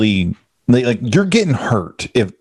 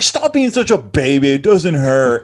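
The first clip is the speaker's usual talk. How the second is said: mocking trainer; 3 semitones higher than usual. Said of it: "he's like".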